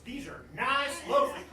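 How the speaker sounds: high, exclaimed Southern twang; Southern accent. Acted. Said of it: "I'm speaking Southern again".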